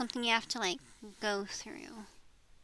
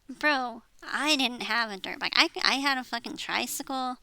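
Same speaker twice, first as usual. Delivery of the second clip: raised, louder frustrated comeback to dad; exasperated retort; 6 dB louder than usual. Retold or imitated. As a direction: push back hard, voice up. Retelling arguing with dad.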